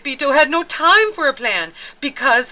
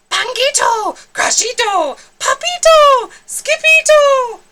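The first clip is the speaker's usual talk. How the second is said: high, loud calls rising to shouts; urgent shouted names; calling out; 8 dB louder than usual. Acted. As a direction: call down the hall in alarm. Mama calls the kitty names.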